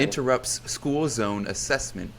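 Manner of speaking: slow, formal headline read; news anchor voice. Shown as a demonstration. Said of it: "news anchor voice ready".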